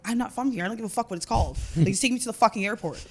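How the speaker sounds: mock-snappish, re-enacting your own impatience; retold snapping. Tired passenger to the Uber driver, retold mild snapping. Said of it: "I was snapping at that point".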